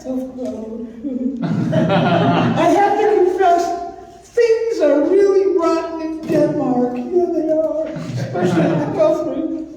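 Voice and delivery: lightly voiced borscht belt comic; old borscht belt comic. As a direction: tell the jokes like an old vaudeville comic. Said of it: "puppet does stand-up routine".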